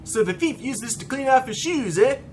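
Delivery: put-on lilting old-timey Canadian accent. Hubert handed a filthy cloth, old-timey Canadian voice. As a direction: play an old-timey Canadian with a swinging tune. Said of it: "He was like a old-timey Canadian".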